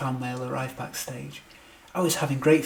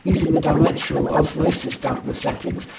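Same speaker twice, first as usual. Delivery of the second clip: loud, raised, driving technobabble speech; urgent heroic declaiming; 4 semitones higher, 9 dB louder than usual. A narrator's reading. Hero tells nurse the plan against rogue reindeer, urgent and loud. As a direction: push the whole plan out at full force.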